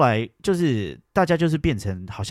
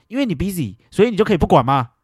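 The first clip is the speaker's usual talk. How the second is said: higher, indignant challenge; retold angry retort; 8 semitones higher, 4 dB louder than usual. Answering the auntie's excuse, indignant and higher. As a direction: throw it back at her. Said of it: "我就说".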